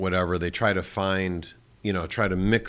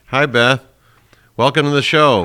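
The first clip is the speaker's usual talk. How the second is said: boomy tin-can sound; hollow, reverberating line; 6 semitones higher, 13 dB louder than usual. Real, not acted. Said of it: "it sounds like you're in a can".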